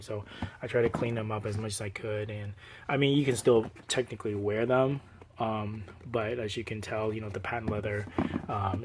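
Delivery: sick, muffled voice; under the weather, slightly muffled. Real, not acted. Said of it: "I sound a little muffled".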